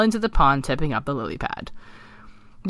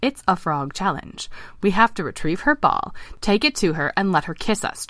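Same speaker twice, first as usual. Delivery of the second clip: mildly chirpy frog; a touch of eager explaining, slightly higher; chirping; 3 semitones higher than usual. Acted. Eric explaining the frog challenge to his friends, chirping. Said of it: "chirped Eric".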